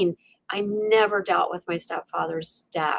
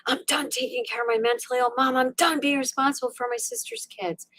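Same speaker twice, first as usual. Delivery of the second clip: exasperated, higher-pitched venting; retold inner rant, pitched up; fed-up rant; 5 semitones higher, 3 dB quieter than usual. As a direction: vent like you have had enough. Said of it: "and I'm ranting".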